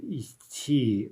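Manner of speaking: Идти drawn out as a bare demo; unpronounceable form. Shown as a demonstration. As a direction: show how Идти can't really be said. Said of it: "impossible to pronounce".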